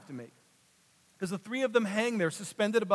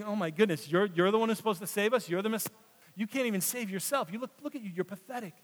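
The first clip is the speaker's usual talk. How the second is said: head-shaking scorn; 2 semitones higher than usual. Retold or imitated. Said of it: "just shaking their heads at Jesus".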